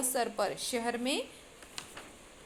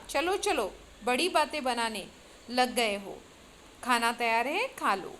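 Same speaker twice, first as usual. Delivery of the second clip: mock anger. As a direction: pretend to be cross while hiding a laugh. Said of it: "बनावटी क्रोध से कहा". (बनावटी क्रोध से बच्चों को डाँटती माँ)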